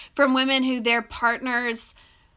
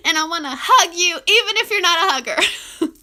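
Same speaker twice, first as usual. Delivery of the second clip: tearful; 5 semitones higher, 5 dB louder than usual. Real, not acted. Tearful words to viewers.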